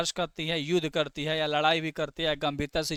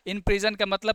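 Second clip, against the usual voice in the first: "in prison" restarted a bit louder and brisker; brisk correction; 3 semitones higher, 4 dB louder, slower than usual. Shown as a demonstration. Teacher correcting himself after a slip, firm and brisk. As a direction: pick it up again firmly after a slip. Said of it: "sorry".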